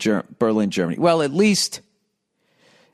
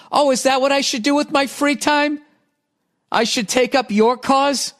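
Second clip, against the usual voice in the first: sarcastic; 9 semitones higher than usual. Real, not acted. Sarcastic retort to listener email.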